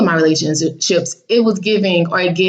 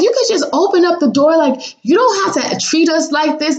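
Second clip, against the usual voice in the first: high, pushy mock voice; lightly hammed-up nosy father; mimicking the father; 8 semitones higher than usual. Voicing the father telling her to open the door.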